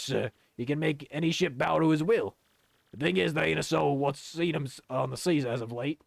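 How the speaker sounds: rough-and-ready sailor role; sailor character. Acted. Patch offers Flavio a solution, sailor voice. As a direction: play a deferential old deckhand.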